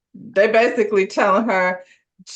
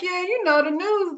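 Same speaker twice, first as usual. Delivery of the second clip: imitating Gerald; 9 semitones higher than usual. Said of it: "And he was like".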